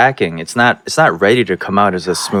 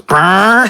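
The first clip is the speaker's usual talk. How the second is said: imitated fart noise; 9 semitones higher, 3 dB louder than usual. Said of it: "he goes".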